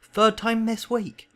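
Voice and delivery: high, loud, drawn-out angry roar. Acted. Uncle complaining at breakfast, roaring. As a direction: roar it slowly across the table. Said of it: "he roared across the table".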